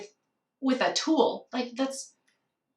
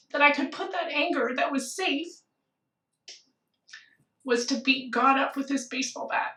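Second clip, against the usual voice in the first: fighting real tears while telling it; tearful; 2 semitones higher than usual. Real, not acted. Recalling her lost son, holding back real crying. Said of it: "now I'm gonna start crying again".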